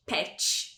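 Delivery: "pet" ending in tch, like "petch". Shown as a demonstration. Teacher citing the mistake, "pet" as petch. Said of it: "esse som de tch".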